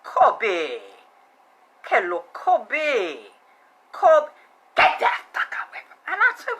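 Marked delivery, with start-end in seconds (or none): 0.0-4.3 cooing voice. Retold or imitated. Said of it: "calling that man name like that".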